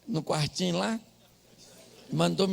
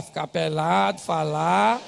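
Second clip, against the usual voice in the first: ordinary talk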